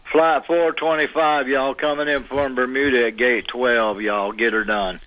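lightly mock flight announcement in a Southern accent; Southern airport announcer. Caller playfully auditions as Logan Airport's voice, Southern announcer. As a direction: call the flight like a good old boy on the airport PA. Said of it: "you'd never do Logan".

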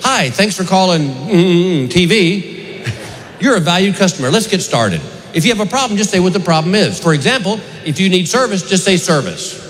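lightly voiced chirpy phone menu; mock the recorded helpline greeting; automated phone voice. A hint of the TV company's phone menu, mock automated voice. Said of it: "this voice goes".

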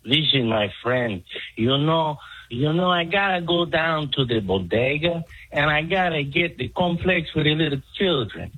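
put-on Latino accent. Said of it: "do you not have a Mexican?".

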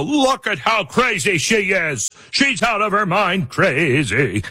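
older critics mocking the candidate, scornful. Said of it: "would make fun of her and go".

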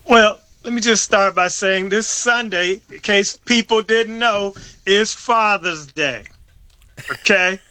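stern announcement, slowing right down on the day; disdainful, stern. Real, not acted. Comedian reminding listeners about Father's Day, sternly disdainful. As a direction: lay it down with a touch of disdain. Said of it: "You hear the disdain in my voice?".

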